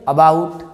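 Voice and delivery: About opening on a short 'uh'; short 'a' sound. Shown as a demonstration. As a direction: model About with 'uh' up front. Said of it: "अ पढ़ते हैं कहाँ पे?". (About में पहला स्वर छोटा अ)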